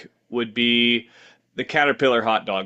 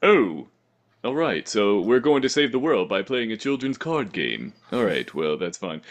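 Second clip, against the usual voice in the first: Yu-Gi-Oh Abridged voice. Retold or imitated. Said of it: "'cause it's just like".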